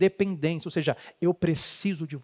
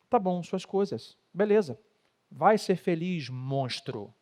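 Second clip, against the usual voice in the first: mocking wife; 4 dB quieter, slower than usual. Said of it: "Assim que a mulher fala".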